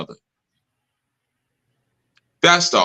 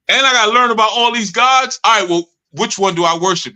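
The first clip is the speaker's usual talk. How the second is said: higher whiny complaint; mock whining student; 5 semitones higher than usual. Student complaining to the teacher, higher mock whine.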